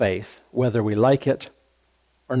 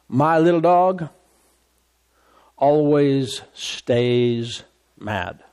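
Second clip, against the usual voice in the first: proud dog owner; much slower than usual. Retold or imitated. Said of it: "the guy with the little dog said".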